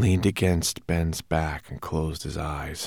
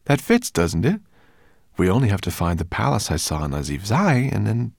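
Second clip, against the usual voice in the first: put-on excited boy voice; 4 semitones higher, 6 dB louder than usual. Ben excited about the clue.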